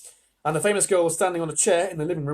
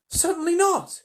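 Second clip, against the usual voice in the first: high-pitched motherly refusal; firm refusal; 3 dB louder than usual. Acted. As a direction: refuse outright, pitched well up. Mother firmly refuses the offer.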